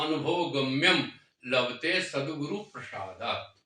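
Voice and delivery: slow measured Sanskrit chant; mantra recitation. Acted. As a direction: recite it as a prayer before meditation. Recites pre-meditation mantra.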